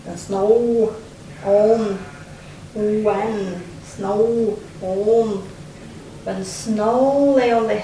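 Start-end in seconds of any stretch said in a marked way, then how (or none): 0.1-2.0 slow, savoring. Shown as a demonstration. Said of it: "again we have the same sounds". 2.7-5.3 when snow on stretched very slowly; slow, savoring. Shown as a demonstration. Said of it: "again we have the same sounds".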